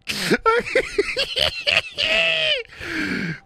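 very high squealing laughter. Real, not acted. Host cracking up at own nonsense, squealing laugh.

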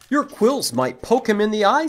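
cheerful high bunny chirp. Acted. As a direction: pipe up like a tiny bunny. Bunny warns in picture book.

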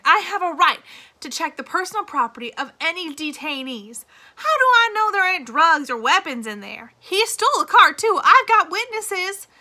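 high, loud, frantic insistence; nearly hysterical. A narrator's reading. Warden insists on searching Stanley's suitcase, hysterical shouting. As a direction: she is unravelling, voice climbing and cracking into shrillness. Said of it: "She was nearly hysterical".

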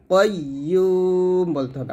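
কাইয়ুম said slowly, kai rounded toward koi; slow careful কাইয়ুম; correct pronunciation. Shown as a demonstration. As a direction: stretch কাইয়ুম with an o-like first vowel. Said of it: "কাইয়ুম বলা যাবে না".

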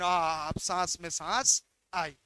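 low, soft sigh of relief; relieved breath between questions. Real, not acted.

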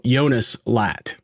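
slow, careful "Jonas Latt", Yo-nas with a Y; carefully placed "Jonas Latt" with J as Y; corrected name pronunciation. Shown as a demonstration. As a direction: say "Jonas Latt" slowly, Latt rhyming with cat. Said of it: "I'll be introducing you as".

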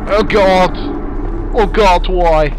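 loud scared cries of Oh God; terrified yelling. Real, not acted. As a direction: yell out in real fright. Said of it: "Sorry for yelling".

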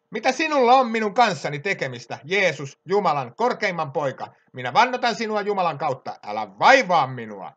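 retold demon's plea, starting high and loud; preacher voicing a demon's outcry; demon crying out. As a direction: imitate a loud cry, pitch falling toward the end. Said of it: "huutaen suurella äänellä sanoi".

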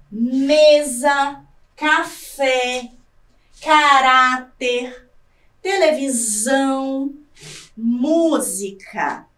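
slow, separate example words with the strong syllable drawn out; stressed syllables highlighted. Shown as a demonstration. Teacher showing students example words, each stressed syllable stretched. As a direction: say "mesa, café, caráter, televisão, música" word by word, lingering on each stressed syllable. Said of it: "As sílabas em destaque são as sílabas mais fortes".

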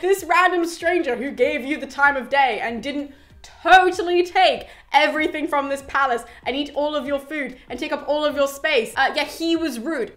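mocking suitors.

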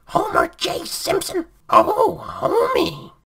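wife shouting at husband; angry yell building to wail. Acted. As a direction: scold him at full volume, then break into a wail. Marge scolding then wailing at Homer.

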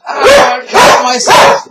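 high, slow, stretched "I caught myself"; slow triumphant second take; slow gleeful drawl. Real, not acted. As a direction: draw it out in triumph. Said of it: "I caught myself a cat".

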